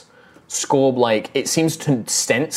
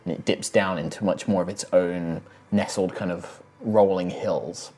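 game master narration. Acted. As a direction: paint the road and storm for the players. Game master sets the scene.

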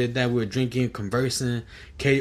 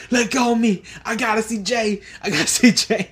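mock drunk yell; 9 semitones higher, 3 dB louder than usual. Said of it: "he's like".

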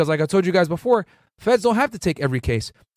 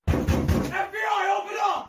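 grave federal agent; 14 semitones higher, 5 dB quieter, much slower than usual. Retold or imitated. Agents raiding at dawn.

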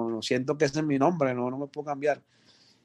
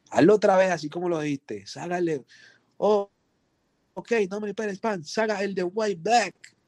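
higher, animated producer asking for another take; eager studio direction; 6 semitones higher than usual. Retold or imitated. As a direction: hype the rapper into repeating the line.

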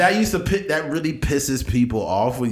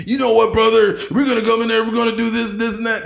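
high, loud wrestler promo; Hulk Hogan impression; 9 semitones higher, 4 dB louder than usual. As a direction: hype it up like Hogan. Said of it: "No, Hulk Hogan".

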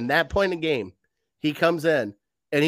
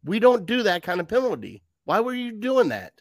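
higher, heated coach chewing out a player; fired-up coach; 7 semitones higher than usual. Retold or imitated. Coach grabbing a player's face mask, heated yelling. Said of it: "grab his face mask and like".

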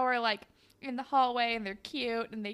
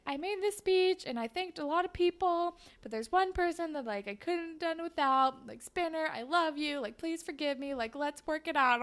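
imitating a sweet, higher-pitched plea; lightly acted heartfelt speech; 6 semitones higher than usual. Jane onstage making up with Spinner, mock-sweet pleading. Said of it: "Jane makes a very nice, sweet speech".

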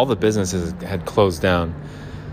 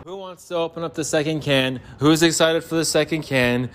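pitched-up hype for the second can; excited pitchman; 6 semitones higher than usual. Acted. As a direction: sell it like a hype man. Hawking cans excitedly.

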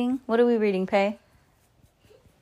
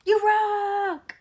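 excited cheer; 14 semitones higher than usual. Real, not acted. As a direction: cheer her on. Kid cheering for friend.

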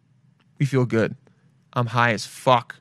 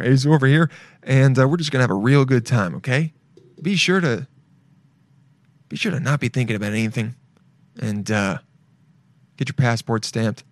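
pretend airline pilot. Pilot welcomes passengers aboard the psychos' plane, mock captain's announcement. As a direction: play a casual captain addressing the cabin. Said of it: "this is your pilot".

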